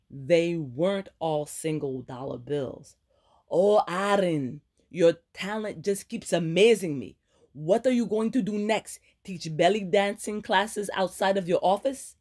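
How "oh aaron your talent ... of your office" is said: exasperated friend, higher and louder, mock praise; scolding friend. Ileana berating Aaron at the bar, exasperated sarcasm.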